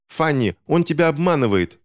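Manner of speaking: put-on high-pitched urgent child's warning; yelling. A narrator's reading. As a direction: cry out a warning high and fast-rising. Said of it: "завопил Финч". (высокий тревожный вопль)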